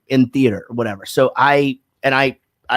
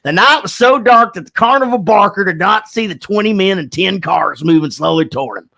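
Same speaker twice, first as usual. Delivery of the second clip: hammed-up stage diction, higher and grand; over-enunciate like a pompous actor; mocking his own diction class with grand stage diction; exaggerated diction; 6 semitones higher than usual. Shown as a demonstration. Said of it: "stand up and go".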